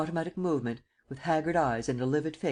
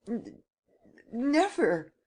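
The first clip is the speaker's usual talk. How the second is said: much higher, stammered refusal; stuttering; 9 semitones higher, much slower than usual. Acted. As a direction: stumble on the N, then force out never. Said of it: "he stuttered".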